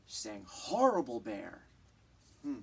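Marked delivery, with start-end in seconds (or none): 0.5-1.6 mild angry cry. Acted. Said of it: "It doesn't seem very calm".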